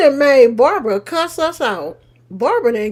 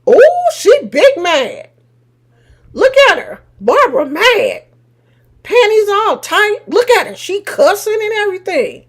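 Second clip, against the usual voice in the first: teasing; 4 semitones higher than usual. Real, not acted. Teasing an angry chatter in chat.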